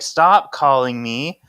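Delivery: mock angry. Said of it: "And then Coop is mad".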